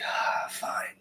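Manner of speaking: whispered reluctant sigh; grudging giving in. Retold or imitated. Finally giving in to the voice, grudging whisper. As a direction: mutter it in a whisper, resigned. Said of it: "I was like".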